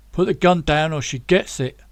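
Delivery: put-on a light London accent on the threat; thick London accent. Tommy holding a knife to Rhea, London accent. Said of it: "his London accent coming in really thick".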